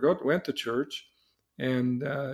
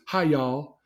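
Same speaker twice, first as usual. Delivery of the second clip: put-on Southern accent. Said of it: "I even did the accent".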